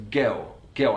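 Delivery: put-on "girl" with the final l turned into a vowel; vocalized L. Shown as a demonstration. Teacher demonstrating the Cockney vocalized l in "girl". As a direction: swallow the l in "girl", like "gew". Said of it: "the vocalized L on girl".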